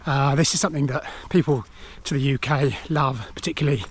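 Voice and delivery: breathless from climbing a steep hill; out of breath, gasping between phrases. Real, not acted. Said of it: "excuse me, I'm out of breath".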